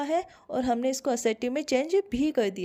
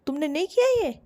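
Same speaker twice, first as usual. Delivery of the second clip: higher and louder, accusing; 4 semitones higher, 6 dB louder than usual. Shown as a demonstration. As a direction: throw it at them like an accusation. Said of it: "तो ऐसे बोल रहा है".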